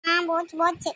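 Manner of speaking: acted bored brush-off; weary, fed up. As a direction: answer with listless impatience. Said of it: "என்னடி சலிப்பா சொல்ற". (சலிப்பான குரலில்)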